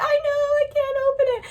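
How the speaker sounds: put-on high, fast little-girl voice; imitating the girl. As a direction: pipe it up quick like a teen. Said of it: "And she's like".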